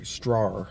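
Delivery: "strar" with a growled pirate R at the end; pirate strawberry. Shown as a demonstration. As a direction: clip "strar" short and roll the R like a pirate. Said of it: "like, yeah, like a pirate".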